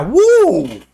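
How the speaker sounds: short whoop at a foul smell; mock-overwhelmed woo; reeling "woo". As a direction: let out a "woo" as the bad breath hits. Reeling from breath blown again.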